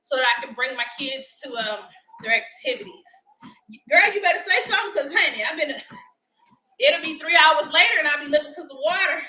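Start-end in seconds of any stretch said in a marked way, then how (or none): 3.9-9.2 quick, louder sassy warning; sassy scolding. Real, not acted. Host teasing a viewer about water, sassy scolding. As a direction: tease the viewer with mock sternness. Joking reprimand to chat.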